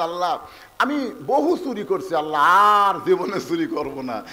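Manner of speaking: ordinary talk, nothing marked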